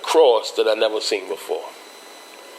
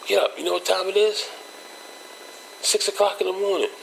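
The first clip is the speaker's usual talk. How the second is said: much higher mock father voice barking orders; angry father; 9 semitones higher, 4 dB quieter than usual. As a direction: play dad rousing him for school. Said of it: "my pops come in the room".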